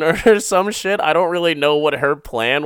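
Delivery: high, loud laughing burst; real amused shriek; laughing squeal. Real, not acted. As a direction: break up laughing on it. Laughing at absurd plan.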